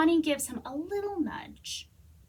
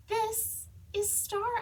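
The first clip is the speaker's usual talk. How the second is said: patient voice; 8 semitones higher, slower than usual. A narrator's reading. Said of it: "in my most patient voice".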